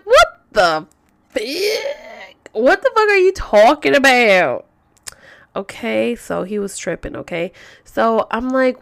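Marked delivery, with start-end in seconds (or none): 0.0-4.6 louder, higher retold outburst at him; angry confrontation. Retelling how she yelled at her boyfriend, angry. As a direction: throw the question back at him, outraged.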